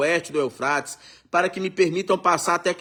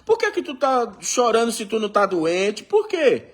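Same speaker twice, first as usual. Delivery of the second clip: parent scolding. Retold or imitated. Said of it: "É igual eu falo ao meu filho".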